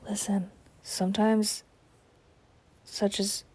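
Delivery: soft unvoiced whisper. Real, not acted. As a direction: whisper it like a secret. Confiding aside.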